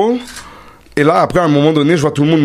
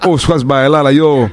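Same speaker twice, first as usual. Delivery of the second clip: laughing disbelief; 2 semitones higher than usual. Retold or imitated. Retelling a confused reaction, laughing.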